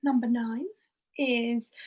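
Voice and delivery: usual speaking voice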